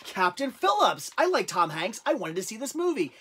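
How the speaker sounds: lightly voiced eager browser, lilting pitch; mock delighted recognition, swooping intonation; imitating casual shopper. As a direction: mimic a customer spotting a familiar film. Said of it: "They're more likely to go".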